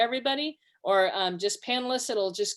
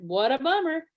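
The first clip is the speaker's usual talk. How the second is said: unsympathetic; 4 semitones higher than usual. Retold or imitated. Wife mimicking her husband's tone back at him, sneering sympathy. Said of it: "But the way you said it".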